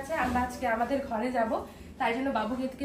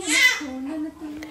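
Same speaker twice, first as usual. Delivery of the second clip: the same coo, this time louder; 2 semitones higher, 6 dB louder than usual. Real, not acted. Mother cooing louder to her baby, delighted.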